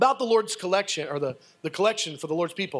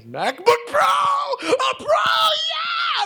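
screaming, much higher and louder, near tears; overjoyed yell breaking into a squeal; ecstatic shout; 7 dB louder, much slower than usual. Retold or imitated. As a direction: shriek with disbelieving joy. Retelling freak-out at Apple store.

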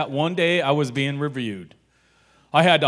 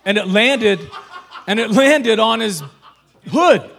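louder, laughing through the punchline; 3 semitones higher, 6 dB louder than usual. Real, not acted. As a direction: hit HOOD hard while cracking up. Retells it, laughing.

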